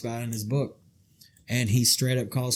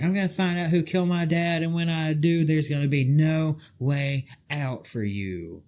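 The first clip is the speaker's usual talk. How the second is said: higher dramatic threat voice; Stephanie McMahon impression; 4 semitones higher than usual. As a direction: mimic her ringside threat. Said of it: "she's like".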